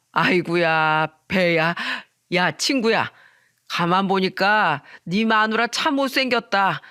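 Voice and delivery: lightly voiced boozy man, amused and derisive; drunk friend. Drunk friend mocking wife's looks to her husband, sneering amusement. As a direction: jeer as a tipsy friend would.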